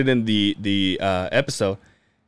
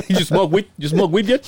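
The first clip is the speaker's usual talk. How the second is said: teasing through laughter, pitched up; laughing mock question; 7 semitones higher than usual. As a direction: giggle while mimicking the kid. Mocking the kid, laughing.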